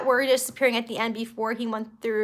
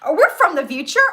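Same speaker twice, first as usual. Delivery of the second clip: louder, eager imitation; mock excited; 3 semitones higher, 5 dB louder, faster than usual. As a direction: act out his excited question. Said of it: "he gets all excited".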